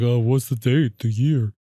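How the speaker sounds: lightly put-on character voice, subdued; imitating his voice. Host mimicking the actor questioning the cop, lightly put-on voice. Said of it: "he does it in his voice".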